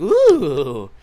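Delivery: loud imitated shivery "ooh"; cold-water shudder "ooh". Showing listeners the body shakes, shuddering. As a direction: mimic a jolt from touching cold water. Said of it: "when you touch, like, cold water".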